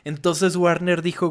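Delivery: ordinary talk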